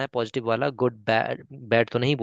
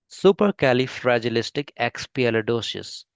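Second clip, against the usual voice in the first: Indian English pronunciation; much slower than usual. Shown as a demonstration. Teacher shows the Indian English version of the word, slow. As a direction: model the Indian English way, syllable by syllable. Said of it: "ये Indian pronunciation है".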